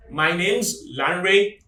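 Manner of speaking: slow, with "name's" merged into one word; contraction "name's". Shown as a demonstration. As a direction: model answer with "name's" fused. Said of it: "you should use contractions".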